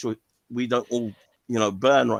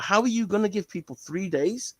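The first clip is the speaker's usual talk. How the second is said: mock indignant condemnation; 2 semitones higher than usual. Scholar condemning the ruling, mock indignation. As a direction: tear apart the three-day rule. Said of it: "He was actually condemning".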